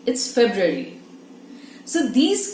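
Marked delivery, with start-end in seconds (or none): 0.0-1.0 February said as "feb-ree" with the first r dropped; February corrected; correct pronunciation. Shown as a demonstration.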